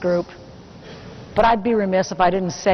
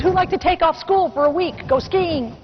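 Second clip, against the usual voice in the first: pitched much higher, teasing and eager; excited tempting question; 7 semitones higher than usual. Retold or imitated. Mother tempting her ski-mad teenage boys, high and eager. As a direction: dangle the offer with playful excitement.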